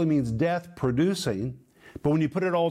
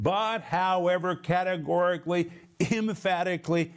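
each word set apart, pitched up; higher, punched delivery of every word; emphatic; 3 semitones higher than usual. Shown as a demonstration. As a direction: land categorically on "But, however, categorically, emphatically". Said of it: "It is very emphatic. It's very categorical".

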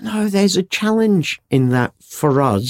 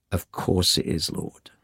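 much softer, trailing almost to silence; soft obvious answer; 6 semitones lower, 10 dB quieter than usual. Acted. A listener quietly conceding to God, softly. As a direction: murmur the answer as a hushed aside.

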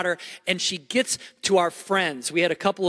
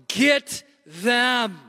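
higher, imitated shout of panic; panicked yell; 5 semitones higher than usual. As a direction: act out her desperate, breathless yell for help. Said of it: "in her panic, she yells".

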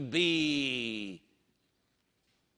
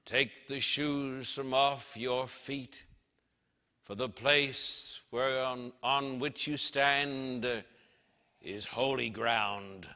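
slow, lower, grave command; commanding divine voice; 5 semitones lower than usual. Acted. God telling Moses the ground is holy, slow and grave. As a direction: lay down the law slowly and gravely. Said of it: "The voice said".

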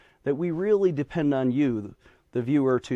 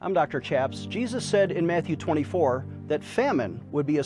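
charity appeal. Acted. Fundraising appeal over music.

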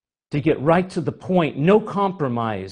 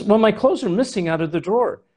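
husband's voice; 6 semitones higher, faster than usual. Retold or imitated. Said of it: "He goes".

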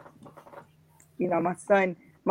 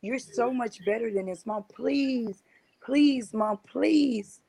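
a son begging his mother to leave; son pleading; 4 semitones higher than usual. Retold or imitated. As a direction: plead with Mom, the pleas climbing higher toward the end. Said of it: "And he was always".

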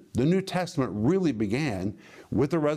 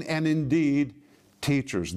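firm stress on "indeed", then a pause; categorical, falling "indeed"; emphatic "indeed". Shown as a demonstration. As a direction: land "indeed" as beyond question. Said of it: "means you should not question this".

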